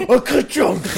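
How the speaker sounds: printing press voice. Pretend. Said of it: "Adam, what happened".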